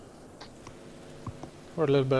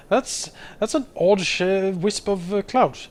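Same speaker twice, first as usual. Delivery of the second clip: puzzled onlooker; 5 semitones higher, 4 dB louder than usual. Pretend. Onlookers voiced puzzled at cloud.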